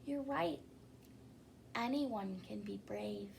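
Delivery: whispered moral; quiet whispered lesson to children; soft aside. A narrator's reading. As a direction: hush it like a secret. Narrator answers softly.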